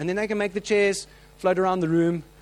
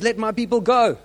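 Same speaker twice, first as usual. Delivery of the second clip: loud and higher, a prophet's demand; shouted command; 6 semitones higher, 6 dB louder than usual. Retold or imitated. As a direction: proclaim it across the water. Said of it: "he shouts to him and says".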